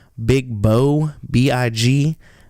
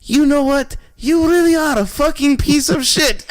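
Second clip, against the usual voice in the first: high and loud, laughing through it; retelling the other driver's dawning insult, high, loud and laughing; laughing mock insult; 13 semitones higher, 4 dB louder than usual. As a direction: spit the insult while cracking up. Cab driver's sudden realization insult.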